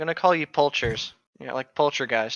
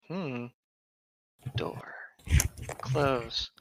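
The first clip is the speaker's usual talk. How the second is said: whisper; 7 dB quieter, much slower than usual. Real, not acted. Muttering to himself.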